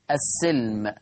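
السلم with a clear i vowel on the sin; kasra on the sin. Shown as a demonstration. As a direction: say السلم as as-silm, with a short i after the s. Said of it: "يقرأها بكسر السين". (السلم بكسر السين: السِّلم)

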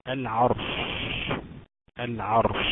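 العرش recited with a heavy, vowelless R after "a". Shown as a demonstration. Teacher showing still ra after fatha, heavy ra. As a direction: hold a thick ر in العرش into the final sh. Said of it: "ساكنة وقبلها مفتوح".

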